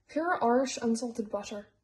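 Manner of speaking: "pure Irish unsalted butter" in a lightly put-on Irish accent at normal volume; bad Irish accent. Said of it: "stop talking in my horrible Irish accent".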